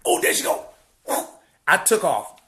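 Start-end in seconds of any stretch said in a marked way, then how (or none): 0.1-0.7 excited whisper. Retold or imitated. Spotting her, quoted.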